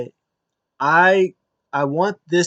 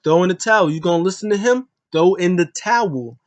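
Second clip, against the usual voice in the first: raised, louder, pushy repeat of the order; imitating a cousin shouting someone down; mock yell; 5 semitones higher, 5 dB louder than usual. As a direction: bark it at him like a bossy cousin. Roman yells at Jimmy.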